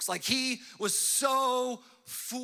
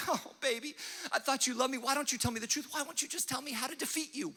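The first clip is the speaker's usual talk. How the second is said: wheedling Delilah; 4 semitones higher, 5 dB quieter than usual. Retold or imitated. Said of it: "she's like".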